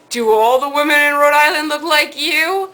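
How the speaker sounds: lightly imitated Italian accent. Italian counterman flirts with customer, lightly imitated Italian accent. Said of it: "in this very thick Italian accent".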